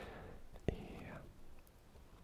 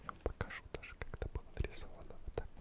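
calm whisper. Acted. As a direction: whisper the story to lull them asleep. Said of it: "таким тихим, тихим, спокойным шепотом".

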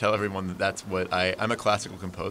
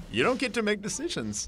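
cold villain; 12 semitones higher than usual. Retold or imitated. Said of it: "And you're like".

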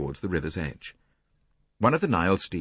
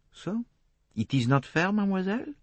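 gentle; 13 semitones higher than usual. A narrator's reading. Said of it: "said Poirot gently".

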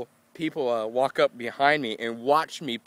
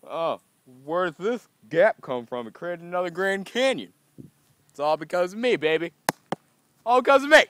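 hammed-up amazed voice rising to a squeal; higher, mock-awed voice ending in a squeal; mock future person marveling; 5 semitones higher, 4 dB louder than usual. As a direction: play a future tourist gushing over the canyon. Imagining future people marveling.

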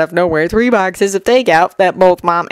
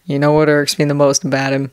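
irritated and tired; 4 semitones lower, 3 dB quieter than usual. Acted. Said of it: "a mix of irritation and tired acceptance".

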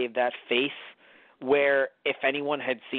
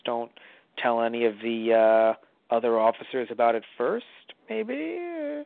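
hesitant, halting low voice with a squeaky last word; awkward, shifty invitation; 4 semitones lower than usual. Acted. Light sounding out Ryuzaki about a stroll in the woods, awkwardly shifty.

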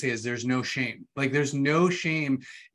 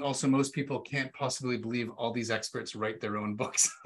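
laughing while reading; 2 semitones lower, 4 dB quieter than usual. Real, not acted. Reading amused audience comment.

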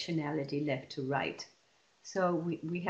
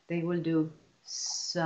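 partly slowed; slower than usual. Retold or imitated. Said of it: "this is the pattern".

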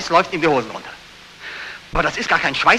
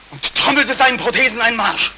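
growing feverish; 6 semitones higher than usual. Acted. Dream vision growing feverish.

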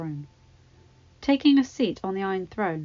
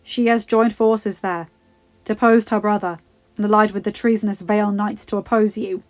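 nervous Baelish; 9 dB louder than usual. Acted. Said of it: "Gulping, he continued".

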